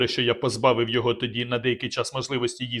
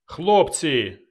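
raised call to his men; shouted call; 3 semitones higher, 3 dB louder than usual. Acted. Narrator calling his men, a shout. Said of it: "крикнув я".

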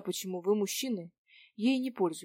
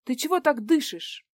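indignant; 7 semitones higher, 7 dB louder than usual. Acted. Indignant follow-up question.

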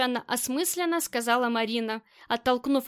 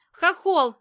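a full-throated yell, much louder and higher; yelling at the top of her lungs; 5 semitones higher, 7 dB louder than usual. A narrator's reading. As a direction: scream his name across the house. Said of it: "заорала Коваль на всю глотку". (крик во всё горло)

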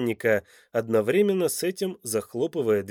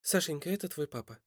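soft, higher motherly voice; tender mother; 5 semitones higher, 8 dB quieter, faster than usual. A narrator's reading. Mother tells her son who his father is, soft and tender. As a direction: break it gently, hushed and raised in pitch.

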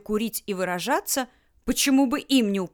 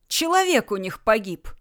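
орал. Acted. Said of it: "орал он".

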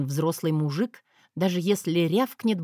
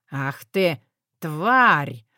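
enraged husband; 2 semitones lower, 4 dB louder, much slower than usual. A narrator's reading. Husband enraged by her threat.

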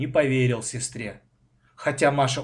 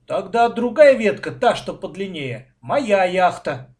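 high, loud start, then drawn-out claim; excited child staking a claim; anxious excitement; 6 semitones higher, 7 dB louder than usual. A narrator's reading. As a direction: claim it with nervous eagerness. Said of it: "от волнения даже губы закусил".

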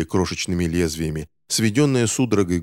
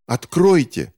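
mock shout; 7 semitones higher, 5 dB louder, slower than usual. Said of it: "хотел крикнуть Финч".

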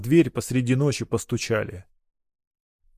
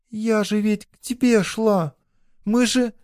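put-on hurt girl; 10 semitones higher than usual. A narrator's reading. Girl pleads, rejected.

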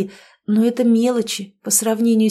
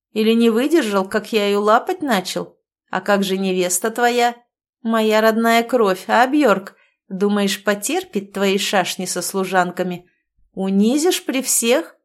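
put-on drunken taunt. Ангус дразнит Бьорка.

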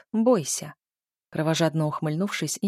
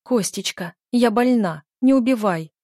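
hoarse plea; 4 semitones higher, 6 dB louder than usual. A narrator's reading. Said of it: "просипела Ольга Павловна".

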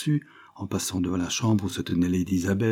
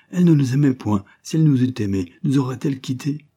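put-on higher-pitched child's protest; lightly acted outburst, pitched up; exclaiming child; 5 semitones higher, 5 dB louder than usual. A narrator's reading. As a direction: cry out as an indignant little boy, in a narrator's voice. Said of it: "s'écria William".

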